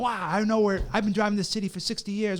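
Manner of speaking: put-on scoffing old man. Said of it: "I was like".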